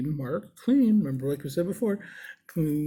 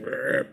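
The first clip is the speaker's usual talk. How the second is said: short growly "arr" noise; old-man grunt. Retold or imitated. The old husband looks up at the piercer, imitated grunt. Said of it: "And he looked up".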